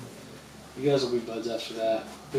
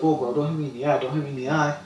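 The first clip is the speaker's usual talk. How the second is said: complaining; 2 semitones higher than usual. Retold or imitated. Opponent complaining after getting hit, whiny protest. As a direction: complain like you just got punched. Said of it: "he was complaining that I hit him".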